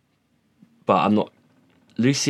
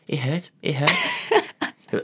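mocking whine; 6 semitones higher, much slower than usual. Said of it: "He was like".

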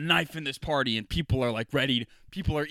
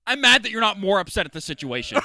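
mock nerd complaint; 6 semitones higher, 5 dB louder than usual. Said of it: "he's like".

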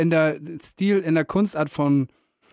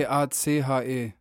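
letter by letter; spelling it out; 3 semitones lower, 4 dB quieter than usual. Real, not acted. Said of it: "wie schreibt man's denn nochmal?".

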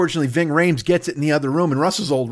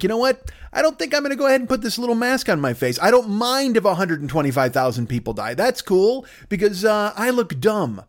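mock supervillain; 4 semitones higher than usual. Comic mimicking an anti-masker as a smug supervillain. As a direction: play the selfish anti-masker as a cartoon villain. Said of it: "supervillain bullshit you've got in your fucking brain".

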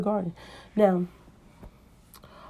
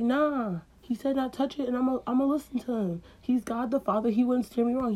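higher, innocent Eve voice; higher young woman; lightly voiced Eve; 5 semitones higher than usual. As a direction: play the naive girl. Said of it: "she's like".

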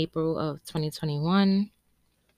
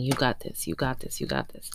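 self-encouraging mantra; 3 semitones lower, 4 dB quieter than usual. Retold or imitated. Repeating her daily mantra.

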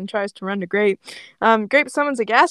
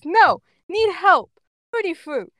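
put-on childlike protest; 9 semitones higher, 4 dB louder than usual. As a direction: plead stubbornly in simple little-kid speech. Voicing childlike Ash refusing.

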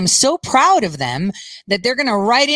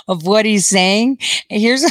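laughing. Real, not acted. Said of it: "I'm laughing just thinking".

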